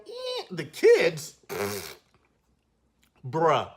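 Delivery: slow disbelieving drag; exasperated. Real, not acted. Reviewer dismayed by the child actors, slow exasperated drag. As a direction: sigh at how bad they were. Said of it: "reading their lines to cardboard".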